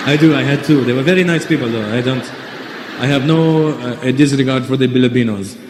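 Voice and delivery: mock Arab English accent; put-on Saudi accent, B sounds for P and F; Saudi accent impression. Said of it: "He was like".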